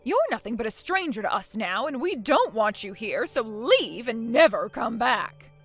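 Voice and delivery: loud, final condemnation, slowing at the end; angry disowning. Acted. Mother-in-law disowning her son's wife, loud and furious. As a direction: throw her out for good.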